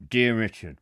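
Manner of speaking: low mock-thug voice; menacing heavy's voice. Host pretending to read a threatening letter, low heavy's voice. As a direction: greet him like a gangster with a threat. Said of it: "I'll do the proper voice".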